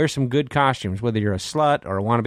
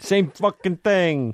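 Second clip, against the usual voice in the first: exasperated; 7 semitones higher, much slower than usual. Acted. Mock exasperation.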